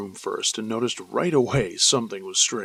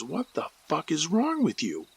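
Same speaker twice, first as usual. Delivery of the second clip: mild mock scream; 6 semitones higher than usual. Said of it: "screaming at the top of my lungs".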